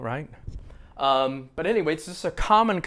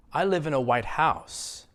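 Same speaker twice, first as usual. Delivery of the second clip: "house" stronger and longer than "white"; stress on HOUSE. Shown as a demonstration. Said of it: "change the way I say it just a little bit".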